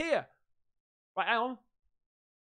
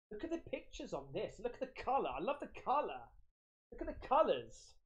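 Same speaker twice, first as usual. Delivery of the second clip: hushed admiring; 3 semitones higher, 8 dB quieter than usual. Real, not acted. Admiring sticker pictures quietly.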